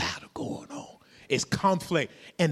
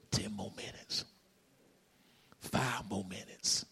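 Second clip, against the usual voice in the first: tempting devil whisper; 6 semitones lower, 11 dB quieter than usual. Acted. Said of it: "he gonna say".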